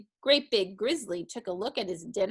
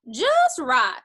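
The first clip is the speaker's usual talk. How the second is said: put-on higher, louder girl's verdict; pleased Dusty Locks; 7 semitones higher, 8 dB louder than usual. A narrator's reading. Dusty Locks approving the cub's beans, pleased. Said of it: "said Dusty Locks".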